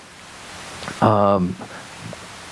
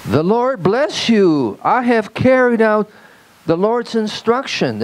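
Saul insisting, pitched higher; emphatic Saul; 7 semitones higher than usual. Retold or imitated. Saul tells Samuel he obeyed, emphatic and raised. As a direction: press every claim as if proving it. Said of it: "the Hebrew is very emphatic".

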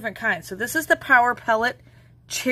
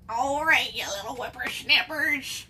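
grandma voice; 4 dB quieter than usual. Pretend. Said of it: "You like my grandma voice?".

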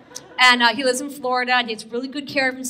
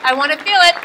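crowd hype; 6 dB louder, faster than usual. Real, not acted. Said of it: "Come on".

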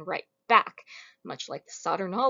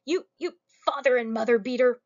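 a higher put-on accusing voice; mock accusation; 4 semitones higher, 4 dB louder than usual. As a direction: hurl the insult in mock scorn. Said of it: "he's like".

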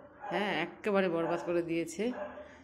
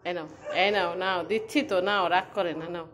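louder coaxing reassurance to a pet; soothing pet talk; 6 dB louder than usual. Real, not acted. Owner soothing Koko not to be angry, coaxing pet voice. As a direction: soothe the dog, don't be angry.

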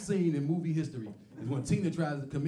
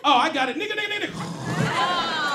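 sleepless racist; 6 semitones higher, 5 dB louder than usual. Acted. Racist white folks who can't sleep.

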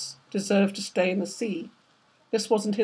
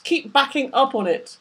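shouted; 4 semitones higher than usual. Acted. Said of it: "Thomas Clayson shouted to Nyssa".

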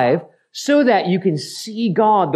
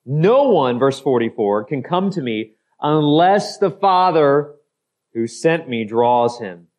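solemn reading; 5 semitones lower than usual. Acted. Reading Jesus' words slowly, low.

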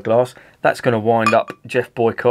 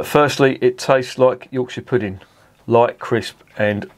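hint of Northern; slower than usual. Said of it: "I can't promise I won't break into Northern".

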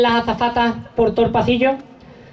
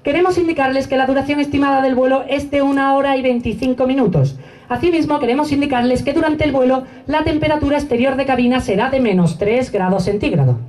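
formal PA announcement voice; airport announcement. Retold or imitated. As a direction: read it like a cabin crew announcement. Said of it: "empieza a hablar por megafonía y dice". (anuncio por megafonía)

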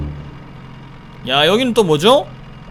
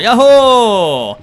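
long drawn-out cheer; whoopee; 4 dB louder, much slower than usual. Acted. Streamer boarding the boat ride, long playful cheer. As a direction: ride the rollercoaster.

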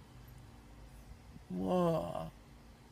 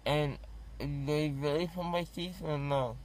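numb from the dentist; 2 semitones higher than usual. Real, not acted. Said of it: "but I don't feel it".

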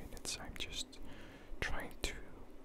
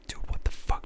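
whisper-shouted indignation; retold outburst; 10 dB louder than usual. Reacting to the thrown phone, a whispered mock shout. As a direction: hiss it out like a yell. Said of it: "I was like".

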